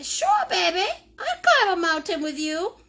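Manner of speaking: laughing through a mock-willing yes; laughing reply. Mother retelling her answer to her son, laughing. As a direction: giggle out a half-hearted agreement. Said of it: "I say".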